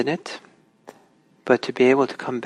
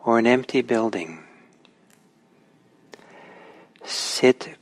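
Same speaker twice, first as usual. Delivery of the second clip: measured recital, long pauses between phrases; sutra recitation. Real, not acted. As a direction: recite meditation instructions phrase by phrase, leaving space after each. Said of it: "I'll, uh, recite, uh, the beginning".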